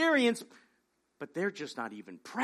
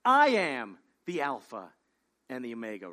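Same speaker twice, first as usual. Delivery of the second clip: slow solemn voice of God; 9 semitones lower than usual. Acted. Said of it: "God quoted again as speaking".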